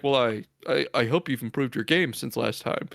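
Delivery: a hint of a smug low customer; low pig guy voice. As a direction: drop the pitch and hush it, lightly. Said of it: "the pig guy is like".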